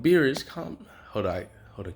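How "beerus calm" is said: lightly voiced higher-pitched cartoon hero; a rough try at an anime hero, pitched up; Goku. Goku calming Beerus, lightly voiced higher. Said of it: "Goku would just kinda be more like".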